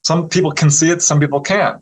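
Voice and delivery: high, pleased surprise easing down; delighted healer. Retold or imitated. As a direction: act out a woman smiling wide. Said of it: "she smiled really wide".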